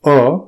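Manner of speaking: long open aa; isolated demo of آ; sound aa. Shown as a demonstration. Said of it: "الف کی آواز جو آ ہوتی ہے".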